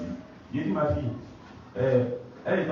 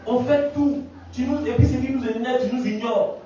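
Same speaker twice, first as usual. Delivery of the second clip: much higher, louder demon taunting; possessed girl's voice; 10 semitones higher, 3 dB louder than usual. Retold or imitated. Demon speaking through the girl, taunting the preacher. Et la fille a commencé.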